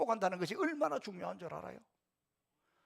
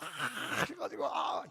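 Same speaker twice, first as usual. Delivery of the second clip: mock fussing; 8 semitones higher, 3 dB quieter, much slower than usual. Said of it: "이렇게 호들갑을 떨어".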